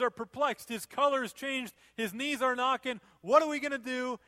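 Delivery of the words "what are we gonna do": panicked lords. Acted.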